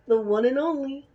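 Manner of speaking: a light cartoon bear lilt; half-slipped into a cartoon bear; Yogi Bear. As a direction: reader slips into a cartoon bear voice. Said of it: "now I just made it sound like Yogi Bear".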